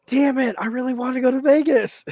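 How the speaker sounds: high put-on voice teasing a friend; mock frustrated wish. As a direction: pitch it up, mimicking his longing.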